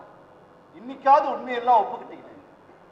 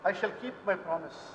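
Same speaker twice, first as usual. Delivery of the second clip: solemn vow; 5 semitones lower, 10 dB quieter, much slower than usual. Acted. Priest solemnly vows in English.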